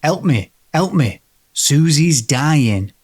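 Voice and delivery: slow, level ghostly plea from a phone line; eerie monotone woman. Retold or imitated. Storyteller voicing the phone ghost's slow monotone plea. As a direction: drone the plea slowly like a flat recorded voice. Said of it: "speaking in a curiously monotone voice".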